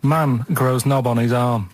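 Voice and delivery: headline read. Pretend. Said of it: "I'll give you the headline".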